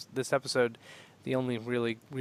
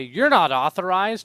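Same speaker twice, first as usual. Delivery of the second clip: droid voice; 4 semitones higher, 7 dB louder than usual. Retold or imitated. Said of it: "The droids say".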